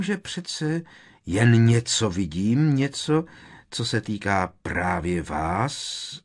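strained seer voice, starting high and loud; angry mystical tone. A narrator's reading. Seer improvising a prophecy for the inspector, shaking with anger. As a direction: grope for an otherworldly tone while seething. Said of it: "se jí hlas třásl zlostí".

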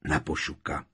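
low, subdued answering toast; chorused toast. A narrator's reading. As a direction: echo the toast as a group would. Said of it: "Přidali se všichni sborem".

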